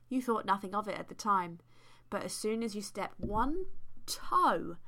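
measured, deliberate storytelling read; story narration. A narrator's reading. Host reads fan fiction to co-host, story narration. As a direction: read it like an unfolding tale.

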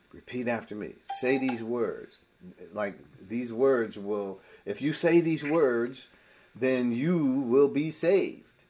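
slow, deliberate mock salvation formula; imitated altar-call preacher. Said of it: "I heard it so many times".

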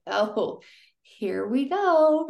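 slow, drawn-out, exasperated here we go; mock the tired reaction to a buzzword; eye-roll sigh. Mocking people's weary reaction to the word trauma, drawn out. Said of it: "words that you're like".

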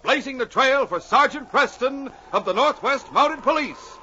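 big booming announcer read; radio announcer. Acted. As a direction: sell it like a dramatic radio intro. Announcer opening of radio drama.

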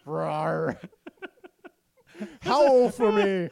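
a sad little mock wolf growl; wolf impression. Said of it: "saddest wolf impression I've ever heard".

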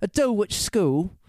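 "Dulwich" drawn out slowly and lifted, relishing the English name; savoring the name. Shown as a demonstration. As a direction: linger on "Dulwich" as if tasting a fancy word. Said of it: "I love the names in English".

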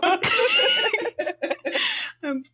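very high, long squealing laugh; shrieking laugh. Real, not acted. Player laughing after muting the game master, long high squeal. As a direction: let out a long shrill giggle.

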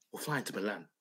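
a hushed, breathy whisper, like a secret plan. Acted. Telling Pete the Milan trip plan, whispered. Dreaming of Inter winning.

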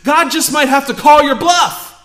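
earnest sermon delivery, building to force; preaching. Acted. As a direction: preach it to the congregation.

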